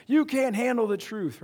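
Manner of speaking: slow, weighty movie-line delivery; quoting the famous line. Retold or imitated. Slow Jack Nicholson line. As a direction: pastor recites the colonel's famous line. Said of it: "that famous line".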